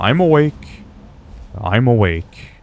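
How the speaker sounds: slow, sleepy, drawn-out druid voice, like just waking. Recalling a game character, the speaker imitates him: terrible sleeping-druid impression. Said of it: "Terrible voice impression".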